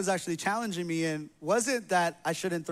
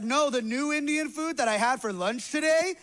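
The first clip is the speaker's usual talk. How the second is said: lightly voiced wife, pitched up; higher voice imitating her correction; imitated wife; 5 semitones higher than usual. Wife correcting husband about her lunch, higher imitated voice. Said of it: "And she's like".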